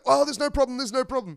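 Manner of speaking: high, loud panicked pleading; suddenly terrified, backing off fast; mock-frightened trucker; scared backing down.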